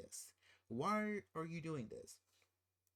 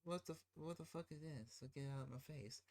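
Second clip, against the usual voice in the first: sudden drop to soft and fast; half-muttered mock rudeness; mock rude wife; 2 semitones higher, 7 dB quieter, faster than usual. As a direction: imitate her snapping dismissal under her breath. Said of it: "she's ungrateful for the gift".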